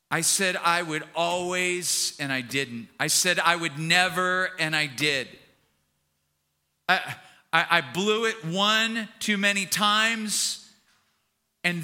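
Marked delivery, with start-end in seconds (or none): 0.1-10.7 anguished regret. Acted. Acting Peter's anguished regret at failing.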